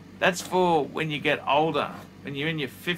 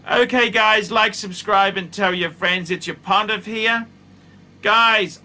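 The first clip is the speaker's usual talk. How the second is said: hyped outro; 6 semitones higher, 7 dB louder than usual. Real, not acted. Outro asking to subscribe.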